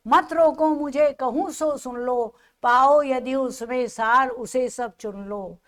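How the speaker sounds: declaimed verse, slowing at the close; poem recitation. Acted. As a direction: recite it as Kaikeyi's plea.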